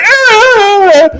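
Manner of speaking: high, loud imitated wail; hammed-up high cry; mock crying yelp. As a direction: squeal like the hurt lady. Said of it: "She's like".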